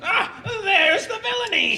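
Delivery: a hammed-up laughing repeat; laughing mock echo. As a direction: parrot his master while laughing. Servant mockingly echoes his master.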